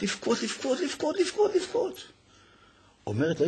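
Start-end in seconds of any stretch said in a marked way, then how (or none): 0.0-2.0 each repeat rises higher and softer, like a wail; building into crying. A narrator's reading. Narrator describes sick boy starting to weep, rising wail. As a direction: let the weeping climb word by word. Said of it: "התחיל לבכות".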